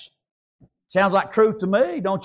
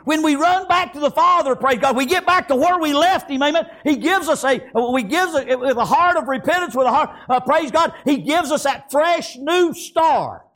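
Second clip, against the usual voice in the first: fervent preaching; 5 semitones higher than usual. Real, not acted. Preaches to congregation.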